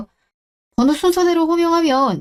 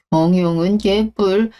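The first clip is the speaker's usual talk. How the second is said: slow scoffing sneer; 4 semitones lower, slower than usual. Acted. Ex-husband scoffs at her management.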